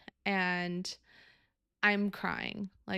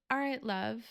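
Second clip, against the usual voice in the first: higher, lightly imitated Australian accent; a touch of cute Australian lilt; 4 semitones higher than usual. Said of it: "cute little accent".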